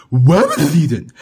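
"Rabbit" said as "wabbit", pitched low; low cartoon duck with R turned to W in "Rabbit"; cartoon speech impediment. Cuphead playing Daffy's role in an argument, "Rabbit" as "wabbit". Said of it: "you were so off the speech impediment".

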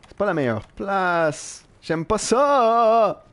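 playful pretend whine at the game; mock whimper. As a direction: drag it out like a fake sob. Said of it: "Je pleure".

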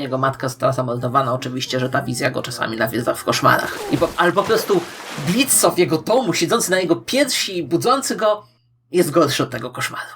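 normal talking voice

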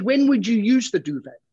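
pushy. Acted. Shop assistant questioning customer.

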